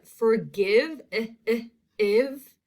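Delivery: "forgive", then short "eh, eh" and the ending "iv"; short I sound. Shown as a demonstration. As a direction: punch the isolated short I of "forgive". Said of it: "that's also a short".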